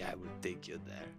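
ordinary talk

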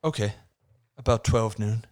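put-on amateur American accent, hammy script read. Mark agreeing to coffee with Lisa, American accent. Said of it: "I went for an American accent".

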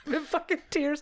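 laughing through real tears; tearful giggles breaking up the words; laugh crying. Real, not acted. Friend crying over retold phone call, laughing. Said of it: "I'm crying now about it".

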